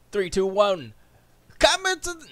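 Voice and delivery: high, loud announcer call; hammed-up show opening; show countdown. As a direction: count in loudly, pitch climbing.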